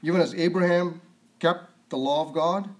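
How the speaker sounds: "Even as Abraham kept the law of God"? asked back in disbelief, rising; incredulous question. Shown as a demonstration. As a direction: question the misquote as if it were absurd. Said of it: "No, that's not what it says".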